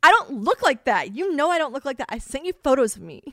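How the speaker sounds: retold indignant protest. Telling the animator off about her photo, indignant. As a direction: protest that the picture is wrong. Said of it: "I was like".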